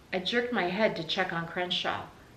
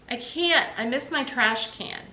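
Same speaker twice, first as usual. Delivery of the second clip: put-on little girl voice; 5 semitones higher, 4 dB louder than usual. Little sister whining.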